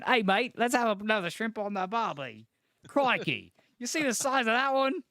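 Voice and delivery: a cheery Aussie bloke at a barbie, overplayed; Australian accent. Friend jokes about Aussie slang, hammed-up Australian accent. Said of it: "that would sound like more Australian".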